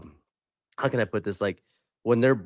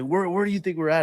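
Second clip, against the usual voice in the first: higher-pitched mock outrage; retold outraged officer; 9 semitones higher than usual. Officer confronts soldier who didn't salute, retold outrage. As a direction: imitate an officer losing it, pitched well up. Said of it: "he lost his shit".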